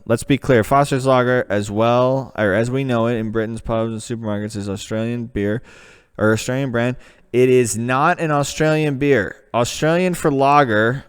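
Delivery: put-on the same page reread in his own American accent. Back in an American voice, rereading the Foster's page. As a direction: drop the British voice, read it plainly American. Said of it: "I've got to go back to America for this one".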